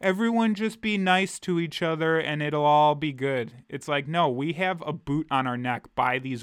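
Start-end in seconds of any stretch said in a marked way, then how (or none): 0.0-3.5 mock hippie voice. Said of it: "this hippie".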